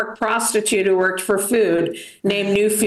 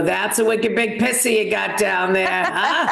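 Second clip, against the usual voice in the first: broad Boston accent, lightly put on. To the guy next to her, lightly voiced Boston accent. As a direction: toss it off like a Boston local in bed. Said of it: "my accent was affecting my sex life".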